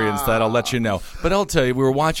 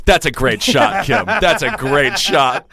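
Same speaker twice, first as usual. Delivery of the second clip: slow, louder nervous praise; forced flattery; 3 dB louder, slower than usual. Retold or imitated. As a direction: compliment him like your life depends on it. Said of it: "play basketball against Kim Jong-un".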